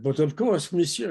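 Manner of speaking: hammed-up old-time French crooner; a touch of cabaret French charm; mock French accent. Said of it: "No, not a French crooner".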